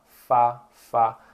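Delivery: fá said as in Portuguese; plain clear fá; Chinese fa. Shown as a demonstration. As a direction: Mandarin fa syllable. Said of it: "normal também".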